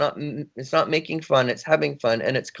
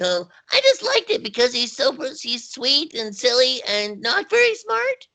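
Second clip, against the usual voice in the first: very high, gravelly, swooping cartoon little boy voice; 13 semitones higher than usual. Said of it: "how you just answered that question in the Snips voice".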